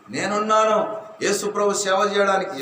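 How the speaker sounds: a firm, willing pledge; bold answer. Shown as a demonstration. Pastor modelling the congregation's pledge, bold. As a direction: say it boldly, as a vow. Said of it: "ఎత్తండి ధైర్యంగా".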